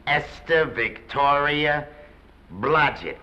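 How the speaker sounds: slow, word-by-word repeat of a name; drawn-out dismay. Acted. Press agent repeats the newcomer's name, drawn out in dismay. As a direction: draw the name out, pausing before the surname.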